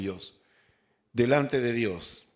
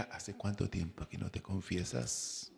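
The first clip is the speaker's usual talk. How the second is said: confessor's question; 6 semitones lower, 11 dB quieter than usual. Retold or imitated. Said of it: "la primera pregunta que me hacían era".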